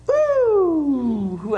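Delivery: high, loud whoop of delight; excited woo. Real, not acted. Pastor whooping as children grab palm branches, loud and high. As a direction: let out a happy whoop.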